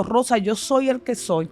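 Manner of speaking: slow, lightly voiced fatherly God; a hint of a solemn father speaking; fatherly divine voice. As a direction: give God's words slowly and gravely. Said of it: "esa voz paterna que en ese día me dijo".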